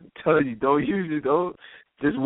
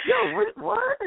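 playing dumb; slower than usual. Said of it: "I try to play it off".

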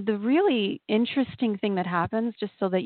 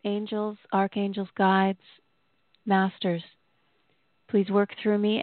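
prayer voice. Acted. Spoken prayer out loud.

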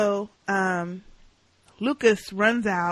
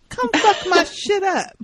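high, laughing dare, voice breaking into giggles; a loud, high, delighted taunt; gleeful dare; 11 semitones higher, 5 dB louder than usual. Retold or imitated. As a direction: laugh through the challenge. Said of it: "I loved when he said".

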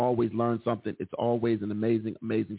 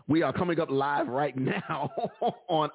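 laughing; 3 semitones higher than usual. Real, not acted. Laughs while going live.

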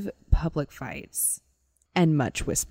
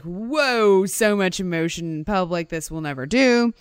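put-on British accent. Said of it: "And he's British".

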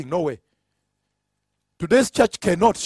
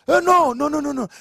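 higher-pitched, rapid run of refusals; retold protest; 5 semitones higher than usual. Callers objecting to the cancelled meeting, in retold protest. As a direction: mimic dismayed callers objecting.

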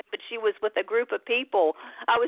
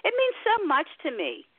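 holding back tears. Real, not acted. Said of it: "I'm gonna try not to cry".

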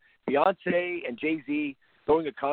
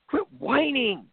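slow, high, louder scolding; exasperated scold; 10 semitones higher, 4 dB louder, much slower than usual. Real, not acted. Host telling sore losers off, exasperated and loud. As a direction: drag it out like an order to stop whining.

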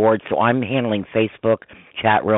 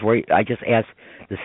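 with hiccups. Real, not acted. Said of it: "Oh, excuse me, I got the hiccups now".

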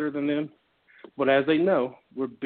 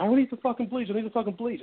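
retold yelling, only a touch raised; half-hearted imitation of a man shouting; mild mock yell; 6 semitones higher than usual. Retelling the bleach buyer shouting at him, mild mock yell. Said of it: "And he's yelling at me".

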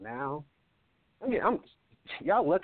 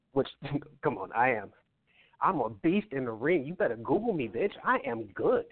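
boastful trash talk, rising; wrestling promo; 2 semitones higher than usual. Pretend. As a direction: brag like a heel on the mic. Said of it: "Cut a promo right here".

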